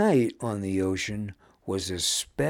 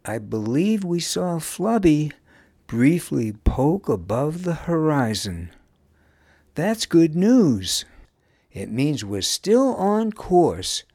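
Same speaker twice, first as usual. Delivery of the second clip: higher, louder encouraging reassurance; consoling, upbeat; 8 semitones higher, 7 dB louder than usual. A narrator's reading. Wuz consoles the children after losing sight, encouraging. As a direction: cheer the children up with good news. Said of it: "tried to console the children".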